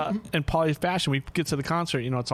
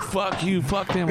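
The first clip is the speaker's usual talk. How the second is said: higher-pitched mock defiance; retold cocky dismissal; defiant; 5 semitones higher, slower than usual. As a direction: imitate a rowdy friend brushing everyone off. Acts out defiant friend on plane.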